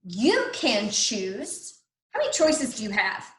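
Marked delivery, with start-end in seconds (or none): 0.0-1.8 slow read-aloud. Shown as a demonstration. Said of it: "I heard a pause right there".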